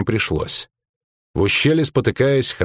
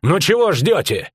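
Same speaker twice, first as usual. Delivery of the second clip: wild taunting shout; 6 semitones higher than usual. A narrator's reading. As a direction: taunt the encircling elves. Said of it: "крикнула она дико".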